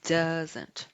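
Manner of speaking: "Doesn't" said slowly and clearly as one word; teacher models "Doesn't" for repetition; model pronunciation. Shown as a demonstration. Teacher asks students to repeat after her, modelling "Doesn't". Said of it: "Repete comigo".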